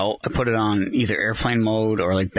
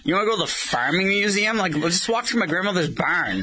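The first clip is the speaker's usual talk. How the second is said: higher-pitched incredulous retort; incredulous teasing; 7 semitones higher than usual. Retold or imitated. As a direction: retell your disbelief, pitched up. Mocking friend's wish for farming museum.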